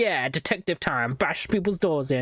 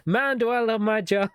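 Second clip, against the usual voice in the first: higher, gushing mock agent; happy cop; 6 semitones higher than usual. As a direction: relish every word. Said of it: "He's just like".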